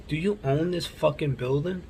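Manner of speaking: imitating a pointed question with a rising end; retold challenge. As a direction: confront them, voice lifting at the end. Retold confrontation, first asking.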